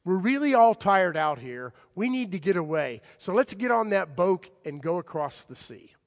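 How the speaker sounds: Jesus to his friends. Retold or imitated. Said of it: "in effect, says to them".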